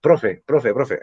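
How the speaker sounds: lightly voiced pupil calling profe; student calling teacher. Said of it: "algunos alumnos me dicen".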